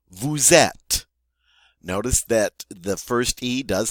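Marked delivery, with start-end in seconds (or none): 0.1-1.1 "vous êtes." louder, linked with a z; French pronunciation. Shown as a demonstration. Teacher shows plural "you are", clearly modelled. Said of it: "the final S is not pronounced".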